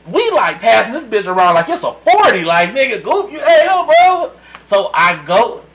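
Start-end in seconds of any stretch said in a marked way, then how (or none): 2.7-4.3 shouting higher and louder, egging friends on; rising party yell at the bros; hype shout. Retold or imitated. Friends passing the bottle, rowdy building shout.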